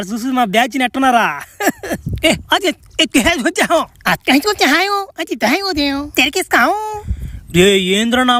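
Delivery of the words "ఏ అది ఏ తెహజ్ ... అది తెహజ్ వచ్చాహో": higher, sing-song made-up alien tongue; alien gibberish. Acted. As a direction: babble it like a strange planet's language. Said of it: "ఏం మాట్లాడుకుంటున్నారా మీరు?". (ఎక్కువ స్థాయిలో గ్రహాంతర భాష)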